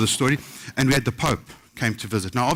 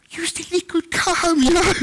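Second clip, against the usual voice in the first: much higher, strained joking falsetto; mock squeaky voice. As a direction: squeak it out in a silly put-on voice. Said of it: "I'm like".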